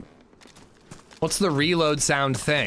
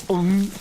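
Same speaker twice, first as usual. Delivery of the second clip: imitated reload hum; 5 semitones higher, 3 dB louder than usual. Shown as a demonstration. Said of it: "bolt action rifles in daisy go".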